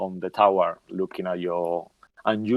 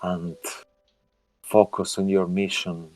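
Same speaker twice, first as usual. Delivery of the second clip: unearthly voice. Acted. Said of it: "ominous, kind of eerie voice".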